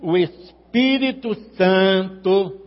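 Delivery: slow, booming cavernous voice. Shown as a demonstration. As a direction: boom it out as from a cave. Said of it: "com a voz cavernosa".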